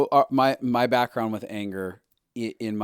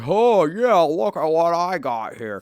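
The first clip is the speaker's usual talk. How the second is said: high and loud proud show-off; imitating excited man; 7 semitones higher, 7 dB louder, slower than usual. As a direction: show off your new Harley with glee. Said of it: "He'd be excited".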